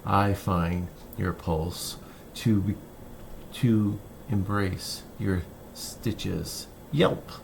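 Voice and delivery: measured poetry reading, phrase by phrase with pauses; poem reading. Acted. Poet reads "Boyhood of a Dog" to listeners, measured recital. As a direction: read it as verse, unhurried, pausing at line breaks.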